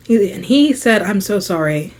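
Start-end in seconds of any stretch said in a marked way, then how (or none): 1.0-1.9 quiet, contrite; soft apology. Retold or imitated. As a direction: apologise softly. Quoting apology.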